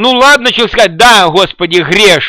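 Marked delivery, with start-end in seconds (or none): 1.0-2.3 put-on grudging, resentful tone. Acting out a grudging admission when cornered, with a mock-resentful tone. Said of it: "это так, с обидой".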